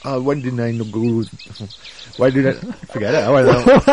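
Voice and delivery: comically bad Schwarzenegger accent; botched Arnie impression. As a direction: attempt an Arnie accent, cracking up. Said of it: "and then Arnie's like".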